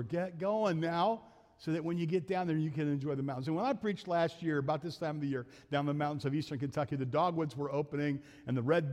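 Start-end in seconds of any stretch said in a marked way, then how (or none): 0.0-3.5 preaching to her. Retold or imitated. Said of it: "I'm always preaching to her".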